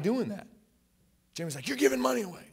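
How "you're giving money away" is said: much higher, louder mock-incredulous quote; disbelieving wife. Wife questioning money given away, retold in mock disbelief. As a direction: imitate a wife's startled objection.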